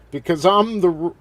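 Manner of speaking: high, loud mock promo shout; halting, hollered wrestler boast; Sid's yelling. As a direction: yell it haltingly, stretching the words. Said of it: "he just kept yelling".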